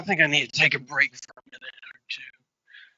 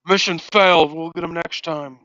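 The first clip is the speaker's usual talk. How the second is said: mock game-over announcer; 7 dB louder than usual.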